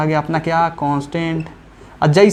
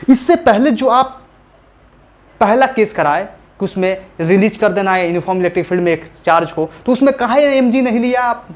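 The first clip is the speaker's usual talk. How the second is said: imitated student question; 5 semitones higher than usual. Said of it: "अब बोलोगे".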